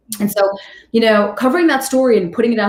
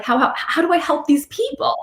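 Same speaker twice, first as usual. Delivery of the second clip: higher, halting retold plea; imitated overwhelmed stammer; 8 semitones higher than usual. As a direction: stammer as if moved to tears, lightly acted.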